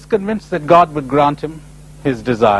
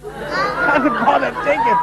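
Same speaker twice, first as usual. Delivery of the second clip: voice of God; 11 semitones higher, slower than usual. Retold or imitated. God voice repeated, slow.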